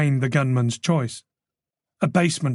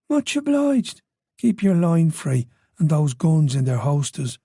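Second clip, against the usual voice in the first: put-on Irish accent; 2 semitones higher than usual. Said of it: "An Irish accent".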